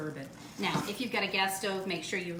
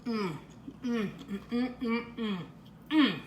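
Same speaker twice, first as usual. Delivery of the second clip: laughing yum. Real, not acted. Tasting with a laugh.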